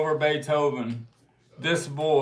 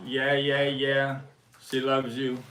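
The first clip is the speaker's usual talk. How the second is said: light imitation of a Liverpool accent, a bit softer; casually mimicking a drummer in a Liverpool accent; 3 semitones lower, 4 dB quieter than usual. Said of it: "In a Liverpool accent, he said".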